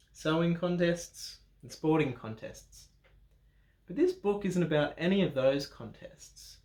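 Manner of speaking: put-on reading a picture book aloud to children; story narration. A narrator's reading. Adult reading a Bible storybook to children, story narration. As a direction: read the opening like a storybook.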